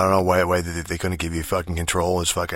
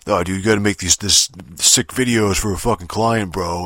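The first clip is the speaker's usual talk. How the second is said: New York agent guy; 5 dB louder than usual. Retold or imitated. Narrator mimics the game's New York agent guy pitching videos, mild New York twang. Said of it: "New York fucking sounding agent guy".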